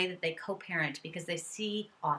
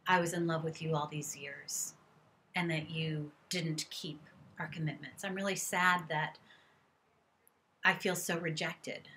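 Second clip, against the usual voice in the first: sad; 3 dB quieter than usual. Shown as a demonstration. Demoing sadness about a lost marriage, softly and sad. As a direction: let the grief come through softly. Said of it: "there are tears that come".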